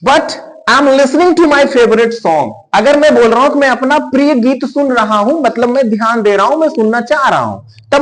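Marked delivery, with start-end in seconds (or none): 0.1-2.5 slow, careful English example; deliberate teacher read; slow example sentence. Shown as a demonstration. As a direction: stretch each word for learners. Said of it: "तब मैं अंग्रेजी में क्या बोलूंगा?".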